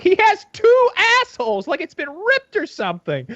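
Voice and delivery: mock shocked hosts. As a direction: gasp at it, mocking. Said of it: "they're like".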